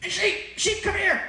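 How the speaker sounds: high sing-song call to the sheep, laughing through it; half-laughing coaxing call, pitched high. Retold or imitated. Friends at the fence coaxing sheep over, laughing high call.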